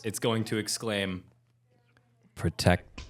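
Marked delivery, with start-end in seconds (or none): 2.4-3.0 low, slow, growled proclamation; deep mummy voice. Acted. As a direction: boom it out like an ancient mummy. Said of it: "in its deep voice".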